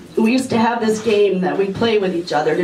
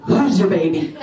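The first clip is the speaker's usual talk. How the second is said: gleeful gotcha. Retold or imitated. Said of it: "I went in his face and I went".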